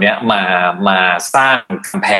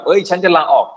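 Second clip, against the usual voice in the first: mock threat; 8 semitones higher than usual. Quoting employee threatening to quit.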